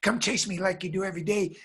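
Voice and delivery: high-pitched coaxing cat; playful cat. Acted. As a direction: coax in a high little voice. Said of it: "And the cat goes".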